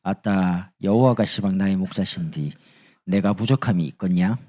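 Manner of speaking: lightly done Jeolla dialect; 전라도 사투리. Shown as a demonstration. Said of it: "전라도 사람 이래 말합니다". (전라도 사투리 흉내)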